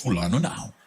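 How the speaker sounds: low, flat sulky no; a hint of a stubborn believer; stubborn refusal, lightly voiced. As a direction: dig in your heels like a sulky child.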